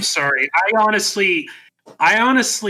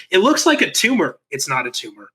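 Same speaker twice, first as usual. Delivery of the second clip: Arnold Schwarzenegger. Retold or imitated. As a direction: deliver the movie line with no accent. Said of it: "doing his lines without the accent".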